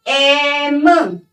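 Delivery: एम drawn out as "ay-mm"; demonstrating pronunciation. Shown as a demonstration. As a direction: stretch the opening vowel of एम, then hum the M. (एम का खींचा हुआ उच्चारण, "ए" से शुरू)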